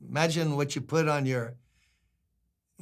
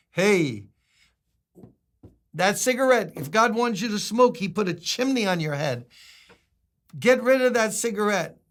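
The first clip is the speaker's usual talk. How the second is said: scolding pastor; 5 semitones higher, 4 dB louder than usual. Retold or imitated. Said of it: "I saw him and I said".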